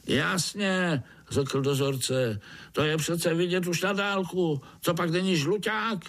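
very high squeaky commander voice; ant overseer. Acted. Overseer ordering the black ants out, high commanding voice. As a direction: bark orders to the troops.

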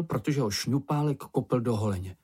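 ordinary delivery

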